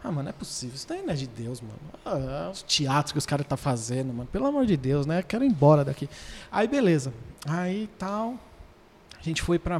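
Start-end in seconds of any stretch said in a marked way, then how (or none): 0.0-6.1 lower, softer dismissive grumble; retold unimpressed muttering; sceptical grumbling. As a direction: grumble to yourself in disbelief. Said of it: "eu ficava assim".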